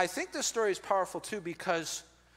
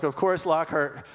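slow, laughing through the words; 7 dB louder, slower than usual. Real, not acted. Pastor laughing at being corrected from the front row. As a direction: chuckle it out, amused. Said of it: "So I laughed".

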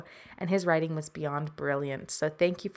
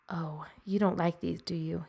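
whispered. Acted. Hushed talk to the creature.

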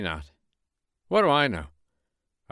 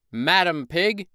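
high, raised call across the yard; rooster calling out; 8 semitones higher, 4 dB louder, slower than usual. Acted. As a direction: call to the pig next door. Rooster calls to the pig.

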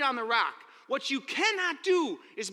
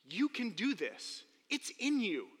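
gentle whisper of encouragement; 5 dB quieter, slower than usual. Acted. Comforting the scared kid, soft and slow. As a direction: say it quietly to steady him. Quiet version of pep talk.

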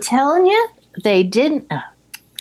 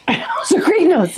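says it through a laugh; 7 semitones higher than usual. Real, not acted. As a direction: laugh at your own notes while saying it. Laughing at her own notes.

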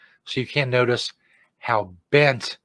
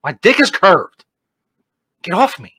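loud, higher-pitched mock outrage; mock angry rejection; 6 semitones higher, 6 dB louder than usual. Host playing husband refusing wife in bed, mock angry. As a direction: snap it like a hammed-up offended husband.

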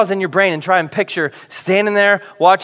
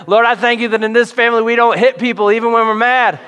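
higher and louder, a preachy parent prayer; mock loud prayer; 5 semitones higher, 3 dB louder than usual. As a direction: pray at the kids in the van, higher and louder. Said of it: "pray really loud so you can teach your kids".

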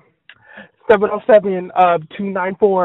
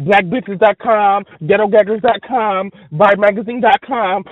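mock radio intro. Mock site-list intro.

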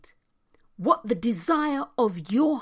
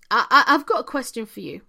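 stumbling through hiccups; 3 dB louder, faster than usual. Real, not acted. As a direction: hiccups catching the start. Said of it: "Actually, I've got hiccups".

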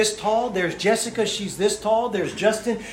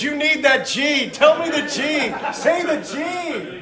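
emphatic urging; 9 semitones higher, 3 dB louder, slower than usual. Real, not acted. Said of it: "urging hearers loudly".

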